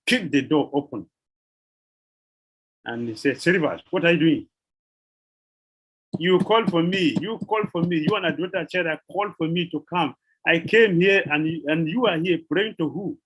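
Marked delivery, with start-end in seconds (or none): 3.4-13.2 acted stern demand, somewhat raised in pitch; mock scolding. The Lord scolding Srivas at prayer, mock stern scolding. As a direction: scold the devotee, lightly in character.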